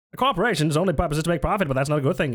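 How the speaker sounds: fifties salesman voice. Pretend. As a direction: rattle it off like an ad man. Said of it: "Like a fifties salesman voice".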